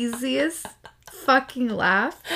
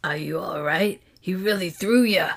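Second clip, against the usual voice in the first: Gina voice. Acted. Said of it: "you're sticking with Big Hand".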